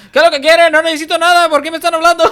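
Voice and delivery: high, loud put-on indignant tirade; mock-outraged Spanish shouting. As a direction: yell at the caller in pretend outrage. Feigns angry Spanish speaker to scammer.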